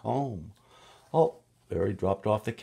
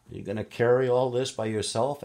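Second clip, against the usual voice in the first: grocer asking; 6 semitones higher, 5 dB louder, faster than usual. Acted. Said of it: "asked the grocer".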